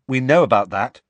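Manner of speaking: Harry cutting Hagrid off quickly. A narrator's reading. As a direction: jump in before he goes on. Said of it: "said Harry quickly".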